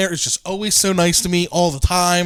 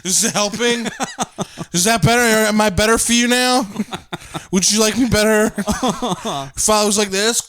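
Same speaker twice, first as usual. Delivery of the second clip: higher, sweetly mocking voice; 4 semitones higher than usual. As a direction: ask it with fake sweetness. Mock gagging reply to insulter.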